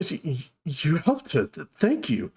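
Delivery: halting, stammered disbelief. Acted. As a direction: stammer your thanks, barely believing it. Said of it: "looks at all of you in disbelief".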